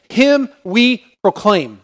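HIM, WE, PROCLAIM spaced out slowly and firmly; emphatic proclamation. Shown as a demonstration. Preacher stressing a Greek text to the congregation, emphatic. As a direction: stretch "Him we proclaim", weighting every word. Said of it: "The Greek text is quite emphatic".

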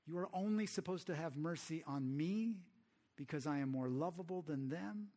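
acted petulant complaint to God; Jonah. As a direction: imitate an aggrieved prophet, easing off from the outrage. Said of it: "Jonah gets mad".

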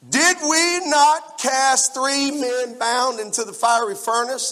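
loud, high, slow proclamation; astonished king. Acted. Astonished king questioning his counselors, loud and high. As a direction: stretch it out, high and booming.

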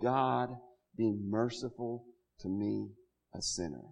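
soft, low plea for mercy, head bowed; humble quiet prayer. Retold or imitated. Tax collector begging God for mercy, softly humbled. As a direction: murmur it like a sinner who can't look up.

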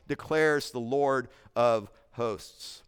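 "declares" drawn out slowly, weight on each word; slow emphatic quote. Shown as a demonstration. Preacher to his congregation, slow weighty "declares the Lord". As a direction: lean into "declares", unhurried.

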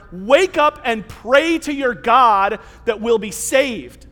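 slow, emphatic captain's order; urgent rousing. Acted. Ship's captain waking Jonah in the storm, urgent. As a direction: rouse the sleeper with weighty urgency.

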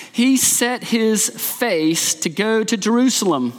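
measured public reading of scripture. Acted. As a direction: pastor reading Luke to the congregation. Reads scripture aloud.

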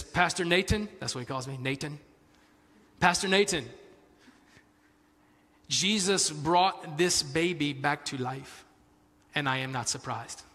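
imitating a pastor in a rough Spanish accent; attempted Spanish accent. Preacher imitating his calm pastor friend, attempted Spanish accent. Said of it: "that's a Spanish accent".

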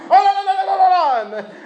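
high laughing cries of no; laughing mock shout. Villager shooing a cow off the produce, laughing. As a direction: shoo the cow away, laughing hard.

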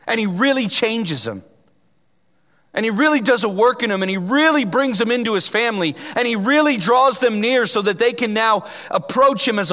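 really pressed hard each time; stress on really. Acted. Preacher stressing really to the congregation. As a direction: lean on every really.

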